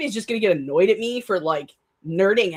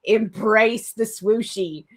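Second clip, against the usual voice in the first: drawn-out mock approval; much slower than usual. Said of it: "I was just kinda like".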